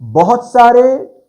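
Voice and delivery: बहुत सारे slow, high and loud; teacher hammering home बहुत सारे, drawn out; underlining the words. Shown as a demonstration. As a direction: lift and stretch सारे for emphasis. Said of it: "ये मैं underline करवाना चाहता हूं".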